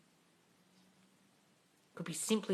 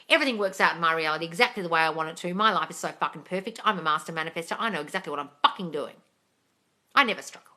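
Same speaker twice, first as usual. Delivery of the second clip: affirmation demo. Shown as a demonstration. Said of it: "Say that".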